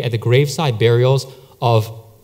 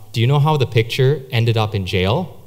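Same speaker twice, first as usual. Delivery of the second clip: lower, understated deadpan riddle; deadpan serious; 4 semitones lower than usual. Retold or imitated. Office friend posing a lame riddle, deadpan. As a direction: imitate a straight-faced joker setting up a pun. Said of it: "in this deadpan, serious voice".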